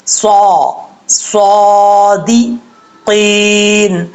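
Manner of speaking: صادقین with a heavy saad and a hiss of whistle; slow heavy saad demo; full-mouth whistling saad. Shown as a demonstration. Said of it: "سیٹی کے ساتھ بھی پڑھنا ہے اور پر بھی".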